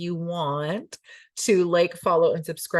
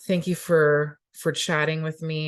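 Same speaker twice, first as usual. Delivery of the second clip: radio voice; 2 semitones lower than usual. Shown as a demonstration. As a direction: sign off like a DJ. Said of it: "This is now my radio voice".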